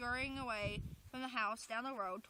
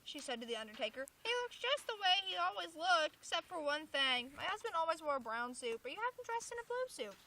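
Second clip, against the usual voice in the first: widow; 5 semitones higher than usual. Acted. Widow talking to undertaker.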